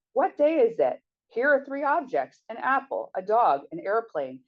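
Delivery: high, lilting mock-patronizing voice; singsong like talking down to a child; sing-song falsetto. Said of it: "Eugene imitated in a sing-song falsetto".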